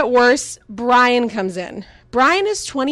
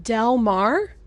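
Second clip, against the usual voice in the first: "Del Mar" with rising disbelief; questioning "Del Mar"; 4 dB quieter than usual. Retold or imitated. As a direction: ask "Del Mar?" incredulous. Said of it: "I'm like".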